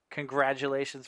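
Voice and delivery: loud, celebratory announcer delivery; announced congratulations. Real, not acted. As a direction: hail the winner out loud. Announces congratulations to contest winner.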